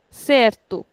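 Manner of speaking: certo with CER stretched and to short; stretched first syllable. Shown as a demonstration. Teacher models certo for students, stretching the first syllable. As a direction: draw out cer in certo, clip the end. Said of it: "We are stretching this and shortening this".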